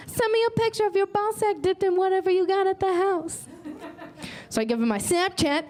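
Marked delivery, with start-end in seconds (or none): 0.1-3.5 mock-casual request. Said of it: "So I'm like".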